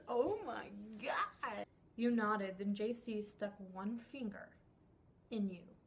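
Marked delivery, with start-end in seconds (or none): 0.1-1.7 slow unvoiced whisper of disbelief; disbelieving whisper. Real, not acted. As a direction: breathe it out in disbelief. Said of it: "Why am I reading this?".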